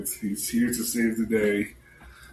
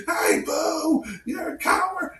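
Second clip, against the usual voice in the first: higher, shouted taunt; mock yell. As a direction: yell the taunt across the field. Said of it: "because he starts yelling".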